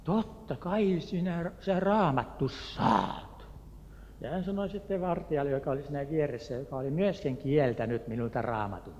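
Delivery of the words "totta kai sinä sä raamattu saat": slow, friendly Turku dialect. Retold or imitated. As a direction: drawl it out like a Turku local. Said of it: "Hän rupesi puhumaan Turun murretta".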